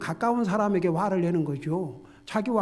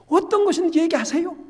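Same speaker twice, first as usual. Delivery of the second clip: much higher and louder, urgent exhortation; preaching at full force; 9 semitones higher, 11 dB louder than usual. Acted. Pastor urging believers to tell God everything, in a high, loud, fervent voice. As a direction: plead with them to pour their hearts out. Preaching urges open prayer.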